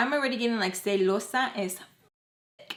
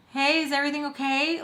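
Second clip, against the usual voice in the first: high, cheery lilt imitating her; happy mom; 7 semitones higher than usual. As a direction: imitate a mother full of life on the phone. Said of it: "she sounds like she's having the time of her life".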